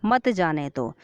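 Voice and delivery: मत जाने दो as one falling phrase; मत joined to जाने दो. Shown as a demonstration. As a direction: start on मत and fall through जाने दो. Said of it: "दूसरे में बोला है". ("मत जाने दो" एक साथ, गिरते सुर में)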